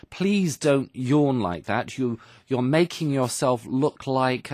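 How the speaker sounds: a touch of a teacher scolding a yawning pupil; mild stern teacher. Retold or imitated. Teacher telling Dana off for yawning, slow mock-stern.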